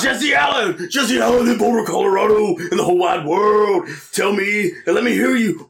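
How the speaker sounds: hammed-up wrestler shout-out; mock wrestling promo call-out. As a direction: bellow a name like a heel wrestler. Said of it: "pretty good Vader promo".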